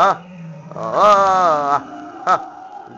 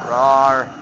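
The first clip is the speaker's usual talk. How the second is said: loud mock roar; 2 semitones lower, 6 dB louder than usual. Gamer roaring like Hulk at enemies, loud and hammy. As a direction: let out a loud monster roar.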